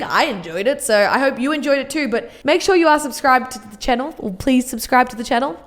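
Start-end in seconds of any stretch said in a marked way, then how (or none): 2.1-4.1 aggressive. Real, not acted. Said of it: "See, I'm so aggressive". 4.2-5.6 polite. Real, not acted. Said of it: "I feel like I never say please".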